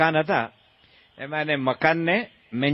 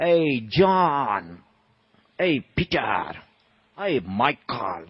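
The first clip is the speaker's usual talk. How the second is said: mock calling out; 3 semitones lower, much slower than usual. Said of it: "એને ઉપરથી બૂમ પાડી".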